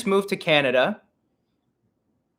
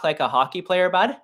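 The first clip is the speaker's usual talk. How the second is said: Canadian accent; 3 semitones higher than usual. Shown as a demonstration. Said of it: "kinda like that".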